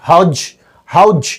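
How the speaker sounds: "how'd" ending in a J, howdj; squeezed syllable. Shown as a demonstration. Teacher isolating the blend, squeezed. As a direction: clip how and did into "how'd" with a final J. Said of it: "how did को how'd कर दिया".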